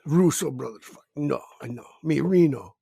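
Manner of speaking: put-on lightly done caveman French Canadian accent; broken-English caricature of Reno, half laughing. Friend mocks Reno's taste in a French caveman accent. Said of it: "making him sound like a French caveman".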